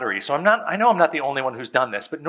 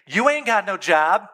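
higher, sassy street-talk jab; mock gangsta dad; 4 semitones higher than usual. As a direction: throw it at the kid with attitude. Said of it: "gangsta with them a little bit".

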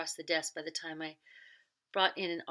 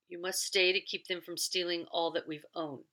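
a lightly voiced stern master of the house, firm and louder; a hint of a commanding gentleman, steady and insistent; 3 dB louder than usual. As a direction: give orders as the master before leaving. Lockton voiced in reading.

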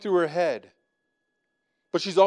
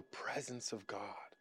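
whisper; 9 semitones lower, 22 dB quieter, slower than usual. Real, not acted.

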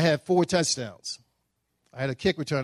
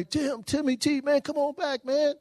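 1 friends calling out; 10 semitones higher, 4 dB quieter than usual. Retold or imitated. Friends calling him from shore.

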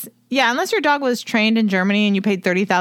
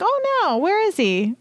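mock alarmed owner; 8 semitones higher than usual. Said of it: "she's like".

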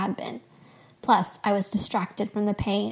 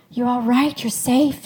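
anxious; 3 semitones higher, 5 dB louder than usual. A narrator's reading. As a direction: check on your wife with urgent concern. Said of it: "anxiety creasing his face".

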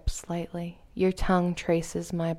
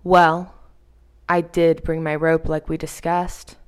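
louder, assured and in control; dominant calm; 6 dB louder than usual. Acted. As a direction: speak as the one in charge. Dominant partner explains plan.

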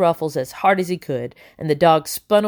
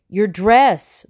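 shout; 4 semitones higher, 4 dB louder than usual. Acted. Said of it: "Blue shouted".

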